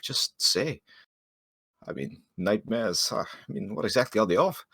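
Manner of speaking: a slightly hushed, lilting offer of help. Acted. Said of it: "lowering his voice as he, uh, speaks".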